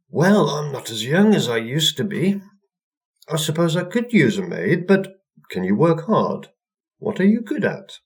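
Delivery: put-on high, creaky old woman; a quavering old witch sizing her up; old crone voice. A narrator's reading. Old woman questions the new maid in a high crone voice.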